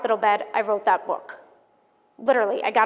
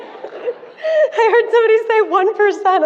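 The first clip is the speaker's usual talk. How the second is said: laughing; 10 semitones higher, 4 dB louder, slower than usual. Real, not acted. Audience answer amuses her.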